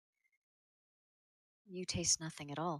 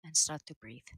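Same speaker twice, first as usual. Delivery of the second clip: soft, hushed guided breathing; soft spa whisper; 4 dB quieter than usual. Acted. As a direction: lull them into calm breathing. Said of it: "puts a hand on each of your foreheads and says".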